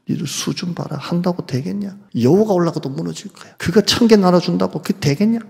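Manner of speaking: taunting the weak believers, mocking. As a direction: sneer it like an enemy mocking. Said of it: "비웃는 거예요".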